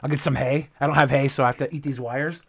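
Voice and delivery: lightly voiced guinea pig. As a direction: play a little guinea pig, fast and soft. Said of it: "I'll do a guinea pig impression".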